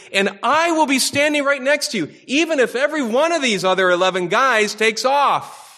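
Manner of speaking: rising, eager voice of a bold disciple; Peter boasting. Retold or imitated. Preacher voicing Peter boasting to Jesus, eager and rising. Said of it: "there's Peter right in the middle of this, saying".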